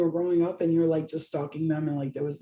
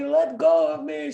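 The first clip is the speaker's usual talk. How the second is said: high protest; 8 semitones higher, slower than usual. Retold or imitated. Pinned by cousin, protesting.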